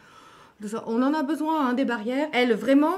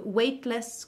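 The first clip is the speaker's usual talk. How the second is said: English pronunciation. Shown as a demonstration. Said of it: "comme disent les Anglais".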